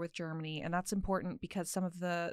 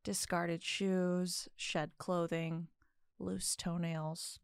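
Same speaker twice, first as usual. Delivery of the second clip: storytelling voice. Acted. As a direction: linger over each grim detail. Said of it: "I put on my storytelling voice".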